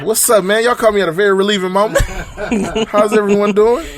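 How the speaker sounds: mock peppy host voice; mock cheery greeting. Shown as a demonstration. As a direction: play the happy host, lightly. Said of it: "If I would've answered like that".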